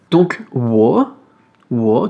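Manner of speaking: wo dipping down then rising again; third tone wo. Shown as a demonstration. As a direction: say "wo" falling then climbing back up. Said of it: "troisième ton". (wo au troisième ton, qui descend et remonte)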